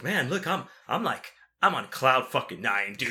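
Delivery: retold giddy excitement; lightly mimicked excitement; imitating excited friend. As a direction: play your thrilled buddy, mildly worked up. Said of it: "Wes was so excited that night".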